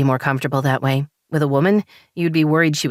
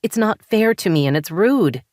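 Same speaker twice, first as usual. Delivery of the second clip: raised, higher accusing voice; wife confronting husband in therapy, indignant and raised; angry; 5 semitones higher than usual. Acted. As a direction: let the hurt spill out as anger. Daisy confronts Jordan angrily.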